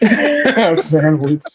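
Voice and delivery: slow, laughing repeat of the words. Real, not acted. Friend laughing at an old sandwich post, slow and amused. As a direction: chuckle it out slowly, amused.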